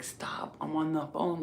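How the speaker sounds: hissed hushed whisper. Retold or imitated. Telling the daughter off in a whisper while on the phone. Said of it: "I was like".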